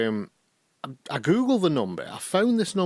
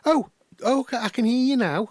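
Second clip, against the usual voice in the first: imitating Kathleen relieved; 12 semitones higher, 4 dB louder than usual. Kathleen voiced, line fixed.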